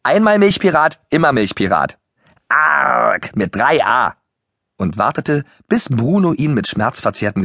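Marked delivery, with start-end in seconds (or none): 0.0-4.1 higher, lively club-password chant; reciting a password. A narrator's reading. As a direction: recite it like a kids' club motto. (Parole aufsagen, lebhaft vorgetragen)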